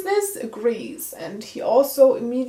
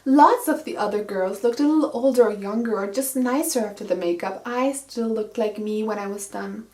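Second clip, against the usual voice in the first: lightly voiced book reading, first person; reading the book aloud. Reviewer reads the book's first-person lines, lightly voiced. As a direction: read the passage as the heroine.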